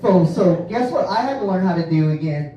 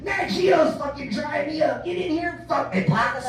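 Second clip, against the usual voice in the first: high, slow, hammed-up mom voice; mock horny mom; 8 semitones higher, slower than usual. Son mocking his mom's sext in a high, slow, hammed-up voice. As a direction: camp it up as the mom, way higher.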